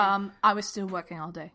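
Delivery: put-on British accent, lightly Cockney. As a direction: answer in an amateur British accent. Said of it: "Jen is using a British accent".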